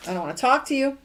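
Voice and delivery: mild irritated venting; irritated rant. Shown as a demonstration. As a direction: snap it out like you're fed up. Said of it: "negative self-talk".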